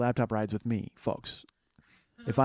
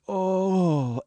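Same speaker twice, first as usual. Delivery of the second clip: higher-pitched mock groan of a struck man; imitated groan; 5 semitones higher than usual. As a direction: groan as if collapsing from a knock. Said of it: "and he collapses".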